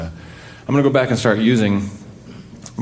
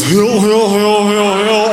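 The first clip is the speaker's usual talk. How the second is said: put-on calling kids to dinner; 12 semitones higher, 6 dB louder, slower than usual. Sister's name, mother calling.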